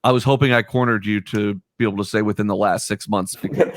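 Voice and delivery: talking while crunching chips; crunchy mouthful between words. Real, not acted. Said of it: "Pardon the crunching".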